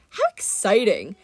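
bored, mocking god voice, lightly voiced; lightly voiced languid god; sarcastic Mister D. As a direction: feign interest, dripping sarcasm.

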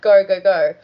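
loud, hurried urging to drive off; urgent go go go. Retold or imitated. Characters yelling at the driver to go, urgent shout. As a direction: push them to floor it now. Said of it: "they're like".

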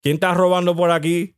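mock confrontation in Spanish; switching into Spanish. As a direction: break into indignant-sounding Spanish questions. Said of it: "we was gonna speak Spanish".

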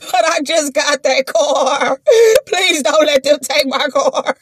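slow, tearful begging; hammed-up whimpering beg; mock crying plea. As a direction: plead through fake tears. Begging to save her car.

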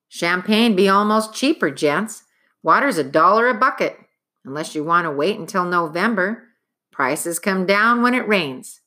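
lightly voiced prim hotel clerk; a touch of a smug clerk; fussy nitpicking bureaucrat. Clerk explains water prices.

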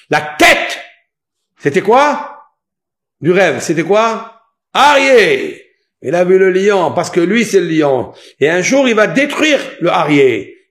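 loud, high, insistent preaching; forceful preaching. Real, not acted. Preacher explaining Nebuchadnezzar's dream to listeners, loud and insistent. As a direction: fire out questions and answers at full voice.

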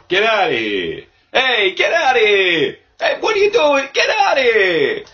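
high, loud mock yell. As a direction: shout them out of the room. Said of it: "my voice is fucking shot. I've been doing a lot of yelling".

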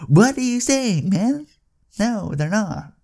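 can't believe what he just heard; incredulous outrage. Real, not acted. Customer reacting to cashier's excuse, high incredulous cry.

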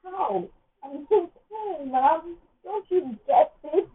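high, slow pleading protest; pained high protest, stretched out. Retold or imitated. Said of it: "and I'm like".

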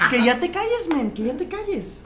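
telling off through laughter; laughing protest. Real, not acted. Host laughingly telling a friend to shut up, amused protest. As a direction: protest while breaking up laughing.

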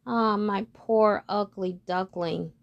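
slow, gentle mother duck voice. Acted. Mother duck pitying her ugly duckling, slow and gentle. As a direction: coo it slowly to her odd chick. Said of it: "she would say".

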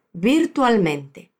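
"virtualmente" drawn out slowly; slow model word. Shown as a demonstration. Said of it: "la forma como la haré".

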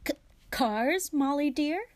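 guilty husband playing innocent; guilty stammer. A narrator's reading. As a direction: caught out by his wife, pitch jumping up. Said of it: "He stared guiltily at his wife".

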